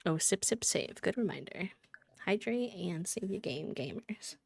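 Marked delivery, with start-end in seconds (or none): 2.2-4.4 whispering. Real, not acted. Soft sign-off to viewers.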